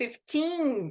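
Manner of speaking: put-on fifteen with the weight on -teen. Counting practice in English, taught in Portuguese: stress on last syllable of fifteen. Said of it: "Também estressando só o final".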